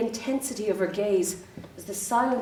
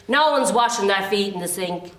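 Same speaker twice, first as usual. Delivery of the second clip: insistent repeat; 4 dB louder than usual. Acted. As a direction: repeat it insistently to the cleaner outside. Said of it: "I said".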